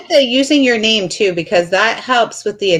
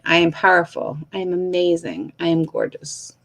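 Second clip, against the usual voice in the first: receiving affirmation; 4 semitones lower, 6 dB quieter than usual. Shown as a demonstration. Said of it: "And then I receive it".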